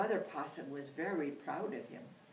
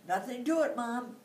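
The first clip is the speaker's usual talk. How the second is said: eager little boast; 8 semitones higher, 9 dB louder than usual. Acted. Eager young possum answering.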